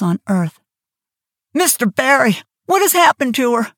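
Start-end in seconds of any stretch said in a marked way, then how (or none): 1.5-3.7 gasped. A narrator's reading. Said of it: "she gasped".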